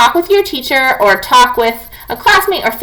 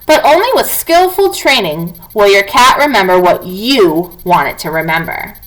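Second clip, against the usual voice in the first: clear, even read-aloud voice for the class; reading aloud to children. Acted. Teacher reading a cat book to her students, clear read-aloud.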